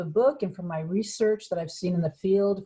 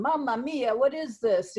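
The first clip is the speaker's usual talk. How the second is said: lightly voiced Italian complaint, pitched up; mock Italian outcry, higher than usual; exasperated Italian; 5 semitones higher than usual. Consultant imitating Italian team reacting to the plan, mock exasperation. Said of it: "the Italians are going".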